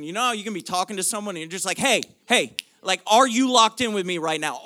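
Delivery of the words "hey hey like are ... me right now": louder, insistent call for attention; arresting attention. Acted. Preacher acting out demanding someone's attention mid-talk, insistent. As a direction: grab the listener with a sudden hey. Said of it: "he is just arresting your attention".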